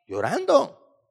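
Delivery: llorando lifted high, like a cry breaking; echoed weeping word. Shown as a demonstration. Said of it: "Nuestro Señor llorando".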